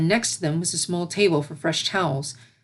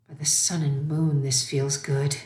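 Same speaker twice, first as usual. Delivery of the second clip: blissful; 3 semitones lower than usual. Acted. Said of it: "her blissful state".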